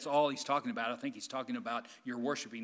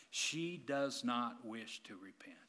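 hushed whisper; 4 semitones lower, 7 dB quieter, slower than usual. Real, not acted. Sad point about the unrepentant woman.

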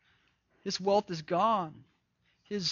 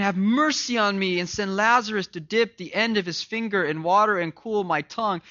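pleading rich man; 4 semitones higher than usual. Acted. Rich man begging from hell.

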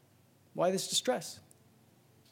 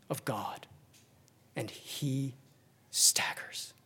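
fading into an unvoiced whisper; 5 semitones lower, 11 dB quieter, slower than usual. Preacher describing Jesus staggering under forsakenness, whispered. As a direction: barely breathe the words out.

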